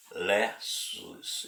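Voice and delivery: Lessus said slowly, in two syllables; pronunciation demo. Shown as a demonstration. Teacher shows listeners an unfamiliar name, Lessus as slow LEH-soos. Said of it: "essa pronúncia".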